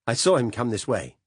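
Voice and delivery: pleading. A narrator's reading. Caught, pleading innocence.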